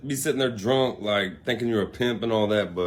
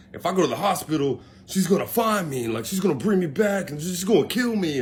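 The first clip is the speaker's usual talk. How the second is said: higher-pitched, mildly panicked mock plea; retold pleading; 7 semitones higher than usual. Drunk man dreading his girlfriend, retold anxious pleading. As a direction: act out begging with a touch of alarm.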